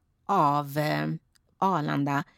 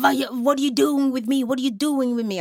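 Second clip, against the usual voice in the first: higher, mildly raised imitation of a screaming man; mock yell; 4 semitones higher than usual. Revived passenger yells at those helping him, mock scream. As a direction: retell a panicked yell at half force. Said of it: "Alltså han skriker".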